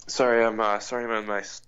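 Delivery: blocked nose from a cold; stuffy nose. Real, not acted. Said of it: "I'm recovering from a cold".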